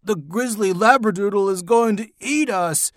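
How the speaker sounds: high cry of panic; acted kid's panicky yell. A narrator's reading. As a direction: warn everyone in a high, alarmed voice. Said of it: "Neil yelled".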